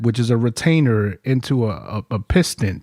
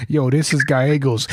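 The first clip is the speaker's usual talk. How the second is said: mimicking Gallegos. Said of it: "you start mimicking him".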